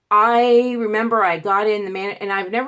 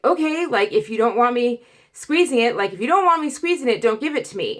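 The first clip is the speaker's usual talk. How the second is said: exasperated; 3 semitones higher than usual. Retold or imitated. Arguing with MRI tech.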